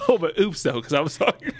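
loud, high comedian impression; comedian catchphrase. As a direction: punch the catchphrase like a stand-up. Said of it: "he's talking about a comedian".

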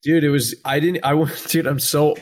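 choppy glitching call audio; breaking up on the call; stuttering call audio. Real, not acted. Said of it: "You're stuttering a lot right now".

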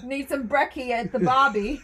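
loud, laughing mock British; cheeky fake Brit; joking cohost, laughing British accent.

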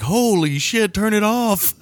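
high-pitched mock alarmed call; mock panic. Imagined crew overwhelmed by the wind machine, mock panicked cry.

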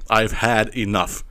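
"I've had enough" slowly, word by word; slow emphatic repeat. Real, not acted.

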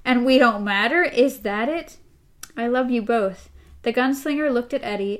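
reading the novel's dialogue aloud to co-host; steady read-aloud of a tense talk; story reading. A narrator's reading. Host reads Roland and Eddie's exchange, story reading.

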